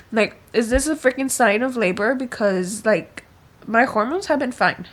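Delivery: real giddy emotional rant; emotional outburst. Real, not acted. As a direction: pour out the overwhelmed feeling. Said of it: "And I'm, like, so emotional".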